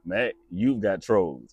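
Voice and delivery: slow, deliberate catchphrase delivery; drawn-out mock-official verdict; catchphrase to camera. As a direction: announce the prank slowly, like a slogan. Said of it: "Yeah, let's try it".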